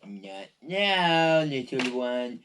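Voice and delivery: lightly voiced creepy captor; a touch of menace, understated; hint of a creepy villain. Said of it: "this creepy voice says".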